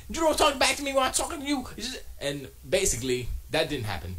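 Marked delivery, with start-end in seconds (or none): 0.1-1.7 high, loud, fast hammed-up scold; mock scolding. Scolding girlfriend for talking back, fast mock scold. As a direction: rattle it off like a pretend tyrant. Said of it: "I smacked it again".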